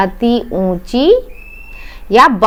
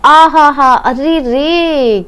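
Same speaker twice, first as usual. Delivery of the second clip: drawn-out ouch, a touch hammed up; teacher playing the stung master; mock pain cry; 4 semitones higher, much slower than usual. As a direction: act a bee sting hurting, lightly. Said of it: "क्या चिल्लाया?".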